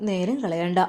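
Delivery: lightly voiced mother, gently urging; mother's voice. Mother tells son to go fetch his wife, lightly voiced mother. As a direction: nudge him along like a caring mother. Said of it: "ഉമ്മ പറഞ്ഞു".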